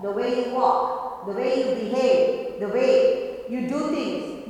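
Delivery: usual speaking voice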